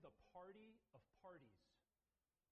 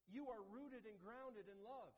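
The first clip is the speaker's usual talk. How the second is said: slow proclamation; 5 semitones higher, slower than usual. Retold or imitated. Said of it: "And he says".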